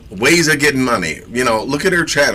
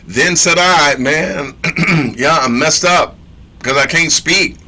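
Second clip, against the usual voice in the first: whiny Jeremiah; 5 semitones higher, 4 dB louder than usual. Retold or imitated. Jeremiah voiced complaining.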